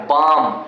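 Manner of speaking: बाम, for "balm", with no L; silent L. Shown as a demonstration. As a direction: say बाम as "baam". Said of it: "एल का उच्चारण नहीं करते". (बाम में ल की आवाज़ नहीं)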